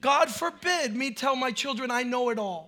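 soft, low earnest preaching; hushed, low pastor's reflection; quiet sermon. Acted.

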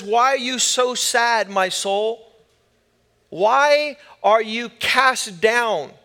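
drawn-out, rhetorical lament to oneself; slow right down on the final question; David questioning his soul. Retold or imitated. Preacher voicing David talking to his own soul, pleading. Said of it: "He would talk like this".

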